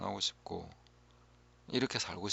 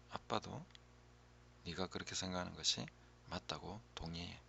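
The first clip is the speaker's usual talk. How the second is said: softer, near-whispered comforting words; gentle reassurance; 9 dB quieter than usual. Shown as a demonstration. Parent agrees tenderly with a struggling child, softly reassuring. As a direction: speak to the child as if soothing them. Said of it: "원하는 사람을 인정해줘야 되는 거죠".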